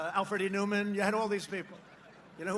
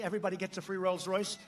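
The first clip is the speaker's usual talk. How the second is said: dry sarcastic aside, a touch softer; sarcastic joke; 3 semitones lower, 5 dB quieter than usual. Retold or imitated. A joking line told to the rally crowd, said sarcastically. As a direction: toss it off as an obvious joke. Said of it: "I say sometimes jokingly, sarcastically".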